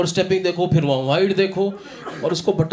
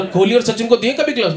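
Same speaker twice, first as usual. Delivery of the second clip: higher, insistent friend's voice; friend quizzing; 5 semitones higher, 3 dB louder than usual. Retold or imitated. Comic quoting his Meerut friend's cricket theory, higher quizzing voice. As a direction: pitch up and press the question like she's caught you out. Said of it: "बोला".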